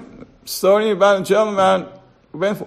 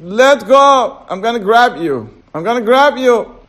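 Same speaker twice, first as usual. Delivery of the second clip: commanding God; 5 semitones higher, 7 dB louder than usual. Acted.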